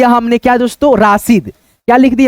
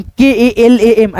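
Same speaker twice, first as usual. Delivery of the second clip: slow spelling; much slower than usual. Shown as a demonstration. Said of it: "तो यहाँ पे हो गया कलम".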